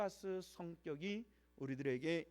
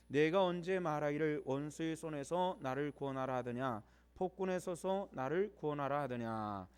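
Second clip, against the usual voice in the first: firm, louder read-aloud voice; scripture reading; 6 dB louder than usual. Acted. Preacher reading Job's challenge to the congregation, firm declamation. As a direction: declaim the verses firmly to a congregation.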